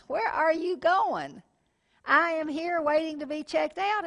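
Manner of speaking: laughing at herself. Retold or imitated. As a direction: laugh at your own outrage while you stretch it out high. Her impatient thought as customer.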